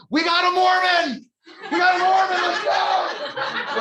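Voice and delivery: very high, loud rowdy yell; screaming inmates. Retold or imitated. Inmates spotting a man in white shirt, high screaming. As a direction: whoop it out to the whole cell block. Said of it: "they scream out".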